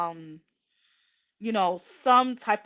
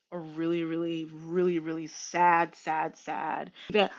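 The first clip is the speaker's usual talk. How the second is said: fighting back tears as you speak; tearful; 3 semitones lower than usual. Real, not acted. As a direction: voice choking up with real tears. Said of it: "Am I crying?".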